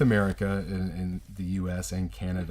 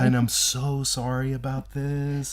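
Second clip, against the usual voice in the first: smooth it over with exaggerated politeness; extra polite waiter; 3 semitones higher than usual. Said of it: "what someone would say to be extra, extra polite".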